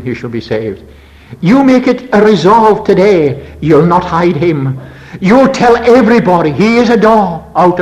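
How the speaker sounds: earnest sermon delivery to the congregation; preaching. Acted. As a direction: preach it with conviction.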